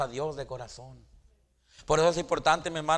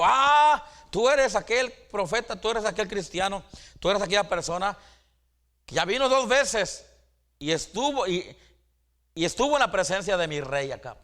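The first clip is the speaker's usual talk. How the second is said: excited recognition; 4 semitones higher than usual. Retold or imitated. Preacher voices Abdías recognizing Elías.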